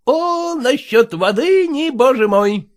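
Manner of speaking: exclaiming. Acted. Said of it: "восклицает купеческий сынок".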